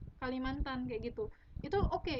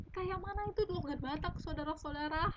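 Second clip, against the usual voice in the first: raised, demonstrative Batak accent; 4 semitones higher than usual. Shown as a demonstration. Writing teacher shows listeners how Batak characters talk, Batak accent. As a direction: put on a Batak lilt, pitched up. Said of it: "kayak gini nih".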